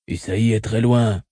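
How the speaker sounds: slow, guttural and cautious; a wary farmer's guttural reply. Acted. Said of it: "d'une voix gutturale aux intonations prudentes".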